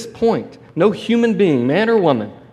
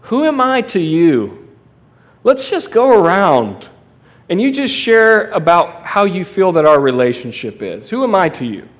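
mock postmodern Jesus; 3 semitones higher than usual. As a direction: lightly parody a group-sharing facilitator. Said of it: "postmodern Jesus who says".

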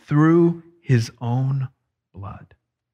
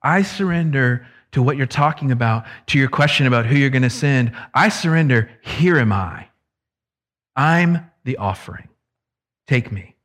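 sincere surrender; 2 semitones lower than usual. Retold or imitated. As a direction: say it as a real offering. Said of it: "He's saying".

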